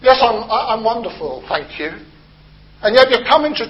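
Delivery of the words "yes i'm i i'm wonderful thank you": a light mock of brushing it off politely; stiff British politeness. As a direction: play the stiff-upper-lip reply, lightly. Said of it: "because we're terribly British".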